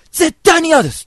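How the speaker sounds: very high, very loud flat refusal; hammed-up screaming girl; shrieking refusal. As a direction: scream no at him. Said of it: "って言うわけ、美穂ちゃんが".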